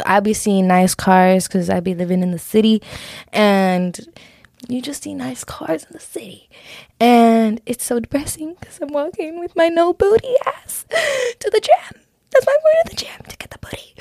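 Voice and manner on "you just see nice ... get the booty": high, laughing half-whisper; giggly whisper. Real, not acted. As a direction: giggle through the joke. Joking about having no booty.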